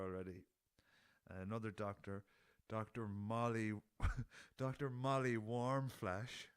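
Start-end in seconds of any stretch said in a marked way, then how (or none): 2.7-6.5 laughing through it. Real, not acted. Reading a silly Bond name.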